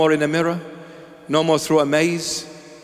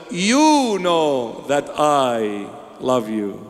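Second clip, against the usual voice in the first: tender Simon; much slower than usual. Acted. Simon confessing his love to the Lord, tender and slow. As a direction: let it sink in, very slowly. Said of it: "He said".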